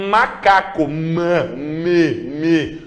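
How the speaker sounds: macaco split into ma, me, me; syllable demo. Shown as a demonstration. Teacher demonstrating full consonant sounds to students. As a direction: sound out each syllable fully. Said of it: "se você dissesse".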